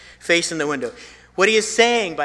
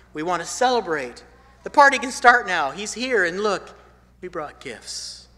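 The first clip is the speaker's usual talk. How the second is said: wise men's voice; 4 semitones higher, 4 dB louder than usual. Retold or imitated. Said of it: "They were saying".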